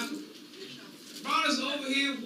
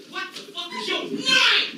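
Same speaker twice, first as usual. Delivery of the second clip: mock demand; 10 semitones higher than usual. Master demands slave's name.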